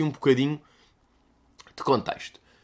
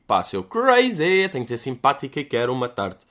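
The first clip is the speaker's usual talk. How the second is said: imagined inner thought. Retold or imitated. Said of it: "com aquele ar tipo".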